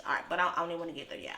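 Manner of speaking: quick, rushed brush-off; rushed, fast brush-off. Real, not acted. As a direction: hurry past it. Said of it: "We're gonna hold on".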